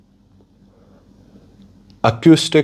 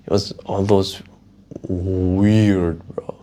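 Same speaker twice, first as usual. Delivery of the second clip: whisper; slower than usual. Real, not acted. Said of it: "So weird".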